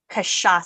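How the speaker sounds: kashasa with sh, then a clean s; correct pronunciation. Shown as a demonstration. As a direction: model "kashasa" clearly, stress on the middle. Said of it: "how do you say it".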